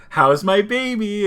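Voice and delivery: high, loud, drawn-out cartoon mom; Lois. Lois phoning her baby, high cooing impression. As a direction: coo it high and slow like a mother. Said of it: "and she's like".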